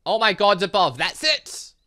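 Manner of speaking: loud sudden eureka; excited realization. Real, not acted. Gamer suddenly cracks the puzzle, loud excited eureka. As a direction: burst out with the idea.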